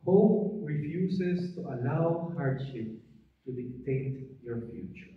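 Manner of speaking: slow, deliberate preaching restatement; slow, weighty sermon line. Real, not acted. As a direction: repeat the lesson slowly.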